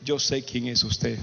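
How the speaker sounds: low, slow imitated threat; imitating a stranger's slow, knowing menace; ominous stranger. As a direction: drop the voice and space out each word. Hostile stranger quoted in story.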